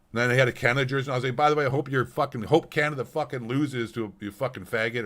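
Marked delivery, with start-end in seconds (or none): 1.4-5.0 hammed-up retort in a raised voice; mock insult. Driver taunts the other man, mock angry. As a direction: play up the insult, louder and higher. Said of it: "I didn't say faggot".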